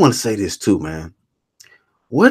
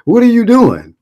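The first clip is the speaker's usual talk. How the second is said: high, loud, stunned squeal of disbelief; shocked disbelief; 10 semitones higher, 3 dB louder than usual. Retold or imitated. Watching a boxer's video, he shrieks in high, loud disbelief. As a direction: shriek it like you can't believe your eyes. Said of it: "I'm like".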